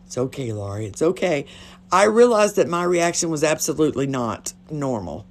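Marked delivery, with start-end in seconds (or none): 0.1-1.5 soft, low soothing reassurance; put-on comforting. Faking comfort for a devastated friend, softly soothing. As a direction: settle her down quietly, faking mama mode. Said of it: "I was trying to comfort".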